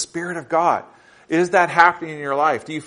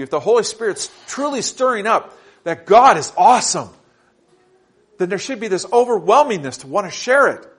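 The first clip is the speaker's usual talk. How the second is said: earnest sermon with raised pitch; preacher urging the congregation; impassioned preaching; 5 semitones higher than usual. Real, not acted. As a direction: build conviction, lifting the key words high. Preaches climax of the point.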